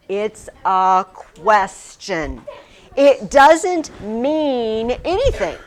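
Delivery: slow, amused explanation with a laugh. Real, not acted. Teacher laughing to class while explaining the particle, amused. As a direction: chuckle through the explanation.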